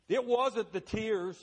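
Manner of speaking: high, loud and slow; emphatic slow declaration. Real, not acted. Preacher correcting the congregation, slow and loud. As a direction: drive it home, word by word.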